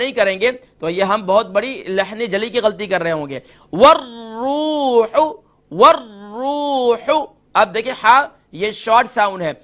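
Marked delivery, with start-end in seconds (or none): 3.7-7.2 والروح with a doubled ra, warr-rooh; slow, the ra of والروح held double. Shown as a demonstration. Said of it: "double letter double sound". (را مشدد)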